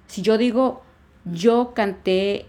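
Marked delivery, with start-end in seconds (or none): 1.3-2.5 "canté" stretched on its last syllable; slow demo, "canté" with long stressed final é. Shown as a demonstration. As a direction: lean slowly on the -té of "canté". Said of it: "acento en la última sílaba".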